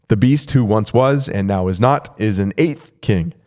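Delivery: deliberate, spaced-out scripture reading. Real, not acted. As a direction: read it carefully, phrase by phrase. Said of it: "I had to read it a little bit slower".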